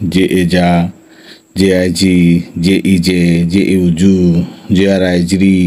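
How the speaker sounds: even, measured letter-by-letter recitation; spelling drill. Shown as a demonstration. Teacher modelling J syllables for repeated practice, even spelling drill. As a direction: chant out the spellings, pausing after each sound. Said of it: "এই উচ্চারণ বিধি যদি বারবার তুমি পড়ো".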